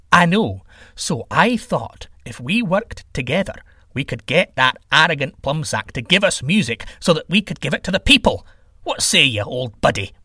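eager proposal, settling down at the end; scheming sky god. Acted. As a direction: coax a rival into joining the plan. Sky god coaxes his rival.

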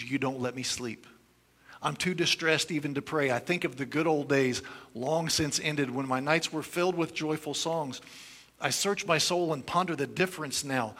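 earnest reading of a lament psalm; prayerful psalm reading; scripture reading. Acted. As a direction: read the lament with pleading feeling. Reads psalm continuation.

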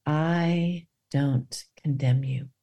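low, slow and gentle; tender forgiveness. Retold or imitated. Jesus forgiving.

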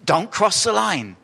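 pharaoh with a lisp. Retold or imitated. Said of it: "He kind of speaks with a lisp".

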